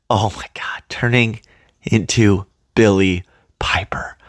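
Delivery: breathless, hushed whisper; awed whisper. Real, not acted. Fan watching the regeneration, stunned whisper. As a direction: whisper it in delighted disbelief.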